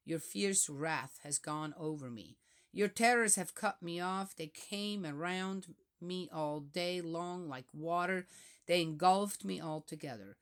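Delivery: steady, solemn psalm reading; scripture reading. Acted. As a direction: let each verse land gravely. Reads psalm aloud.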